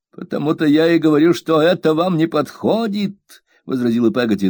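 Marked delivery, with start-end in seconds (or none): 0.1-3.2 raised, firm housemaid voice; higher-pitched stubborn servant; stubborn servant Peggotty. A narrator's reading. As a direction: dig in your heels as the blunt maid.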